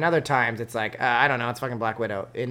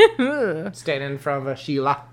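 shaky attempt at an Australian accent; mock Australian accent; bad Australian accent. Shown as a demonstration. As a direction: parody a romantic line in Australian. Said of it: "I can't do an Australian".

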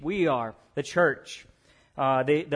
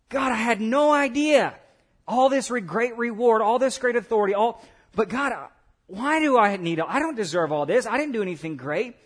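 higher-pitched, overwhelmed protest to God; mildly astonished, words tumbling out in disbelief; surprised sheep; 4 semitones higher, 3 dB louder than usual. Acted. Sheep to God on reaching heaven, surprised. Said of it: "They were surprised too".

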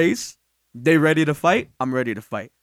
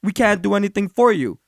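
mock-polite; 3 semitones lower than usual. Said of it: "in, like, the nicest way possible".

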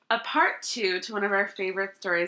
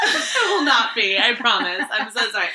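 laughing; 6 dB louder than usual. Real, not acted. Laughing denial of reading Dickens.

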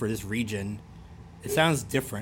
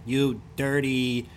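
slow, mock Fargo insult; Fargo accent; slower than usual. Shown as a demonstration. Inventing insults from out there, Fargo accent. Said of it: "what an insult would be from out there".

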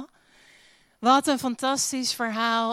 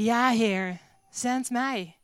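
loud yes; slower than usual. Shown as a demonstration. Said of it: "met een hele luide ja".

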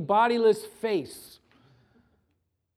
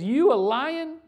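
mocking wizard; 5 semitones higher, 4 dB louder, slower than usual. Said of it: "he says".

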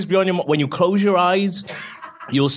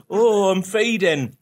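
slow, hammed-up dying sigh; overacted death scene; 6 semitones higher, much slower than usual. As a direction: play it like a melodramatic death. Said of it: "started going".

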